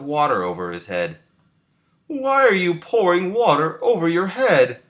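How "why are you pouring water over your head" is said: high, puzzled little frog asking; Frog's voice. A narrator's reading. Frog asks Toad about the water, high and puzzled. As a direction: raise the pitch for a curious Frog. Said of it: "asked Frog".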